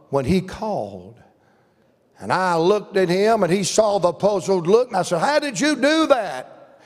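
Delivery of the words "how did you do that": high, drawn-out astonished question; retold bafflement, pitched up and slow; amazed. Puzzled preacher asking the shepherd his secret, amazed.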